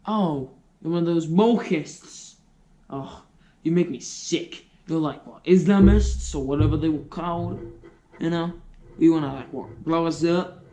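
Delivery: hostile Aussie rant. Acted. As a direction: sneer and build to an angry rant.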